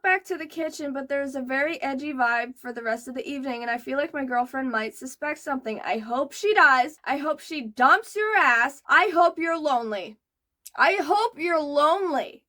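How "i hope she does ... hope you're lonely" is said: spiteful wish. Real, not acted. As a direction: spit out every wish. Cursing the poster.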